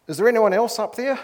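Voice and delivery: high, loud plaintive call upward; acted cry for someone else, pitched high. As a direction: shout up as the desperate tourist. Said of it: "the tourist called out".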